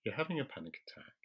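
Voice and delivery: steady, soothing, unhurried talk-down; calm and slow. Shown as a demonstration. Calming someone having a panic attack, soft and unhurried. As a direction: talk them down gently and slowly. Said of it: "I'll deliberately slow my speech".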